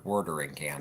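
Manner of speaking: watering said wor-dering, R-colored and clipped; South Jersey wor-dering can; South Jersey accent. Shown as a demonstration. Co-host shows her own South Jersey way of saying it, wor-dering can. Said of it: "you can't say it".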